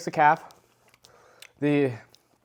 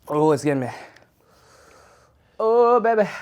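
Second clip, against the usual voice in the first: mouth burning from spicy food; 6 semitones higher, 5 dB louder than usual. Real, not acted. Spicy heat hits.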